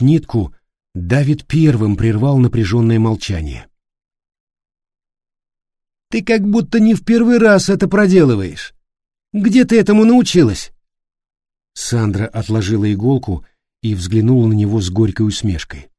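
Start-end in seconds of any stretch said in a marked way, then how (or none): 6.1-10.7 higher voiced David, curious question; curious young man. A narrator's reading. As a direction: ask with surprised curiosity. Давид удивлённо спрашивает Сандру. (любопытный голос Давида)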